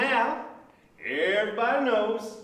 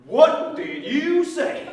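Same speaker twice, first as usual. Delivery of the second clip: angry; 4 semitones higher, 5 dB louder, slower than usual. Acted. Outraged at being called grabbers.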